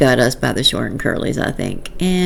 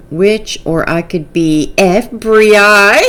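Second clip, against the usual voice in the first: laughing while reading; 3 semitones higher, 4 dB louder, slower than usual. Real, not acted. Laughing at comment being read.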